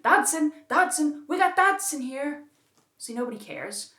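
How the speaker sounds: high, loud, goofy Nedry impression; imitating Dennis Nedry. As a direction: call "Dodson" out high and loud, hamming it up. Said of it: "Dennis Nedry's famously going".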